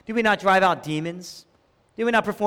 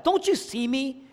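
higher-pitched imitated complaint; fed up; 5 semitones higher than usual. Preacher voicing Martha complaining to Jesus, fed up. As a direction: complain as if overlooked. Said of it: "Martha gets fed up".

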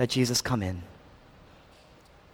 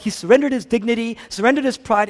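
loud preaching; 8 semitones higher, 6 dB louder than usual. Acted. Repeated phrase, loud then soft.

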